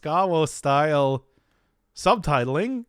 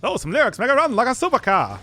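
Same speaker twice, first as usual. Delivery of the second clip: silly voice. Pretend. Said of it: "Stop with the voice".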